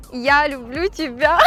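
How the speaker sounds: loud, ending in a laugh; breaking into laughter. Real, not acted. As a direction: laugh bursts out at the end. (срываясь на смех)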